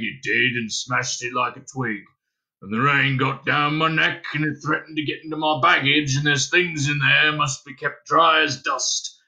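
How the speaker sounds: humble little creature in a put-on voice; small hairy creature, chatty. Hairy stranger explaining its wet night to Dunstan, chatty creature voice. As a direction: ramble on as an apologetic furry lodger.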